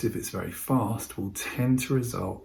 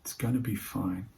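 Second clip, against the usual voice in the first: calm reassurance; 4 dB quieter than usual. Shown as a demonstration.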